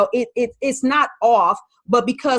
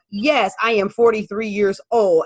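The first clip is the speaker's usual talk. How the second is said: flat, robot-like monotone voice; 2 semitones lower than usual. Showing how stiff language learning sounds: robotic voice. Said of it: "sounding like a robot".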